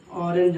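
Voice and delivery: ऑरेंज sounded out slowly from an open "aw"; pronunciation demo. Shown as a demonstration. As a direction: draw out the opening vowel of ऑरेंज. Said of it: "इसको प्रोनाउंसिएट करते हैं".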